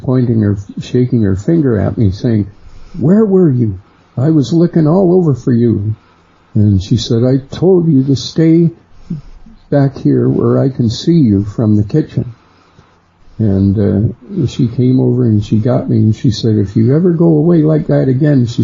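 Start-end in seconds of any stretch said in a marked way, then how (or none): 3.0-5.9 scolding mother. Retold or imitated. Mother scolding, shaking her finger. 7.2-12.3 scolding mother. Retold or imitated. 16.6-18.5 scolding mother. Retold or imitated.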